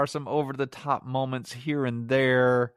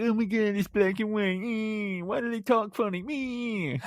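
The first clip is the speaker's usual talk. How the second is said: much higher, whiny mock teen voice; mocking young viewers; 10 semitones higher than usual. Reviewer mocks young people who hate old films, high whiny voice. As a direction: parody a bored kid complaining, pitched way up. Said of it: "all of you young people will be like".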